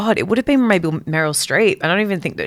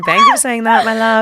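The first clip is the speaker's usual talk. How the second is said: much higher, louder, sugary gracious voice; mock gracious thanks; 4 semitones higher, 6 dB louder than usual. To her cohost, imitating herself gushing a high sweet thank-you. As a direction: gush a grateful thank-you like a diva. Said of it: "I'm going".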